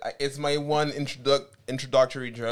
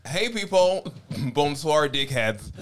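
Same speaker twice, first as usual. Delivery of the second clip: cheeky greeting; 2 semitones higher, slower than usual. Real, not acted. Guest mimics host greeting.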